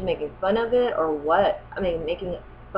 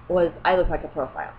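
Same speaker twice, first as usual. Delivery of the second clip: says "profile" in place of the intended word; plain voice, the slip uttered as a mistake; misspoken word. Retold or imitated.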